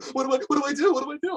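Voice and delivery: high whining mimic of shoppers; mock whiny customer. Retail worker mocks customers who cannot try clothes on, high and whiny. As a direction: whine it like a lost customer.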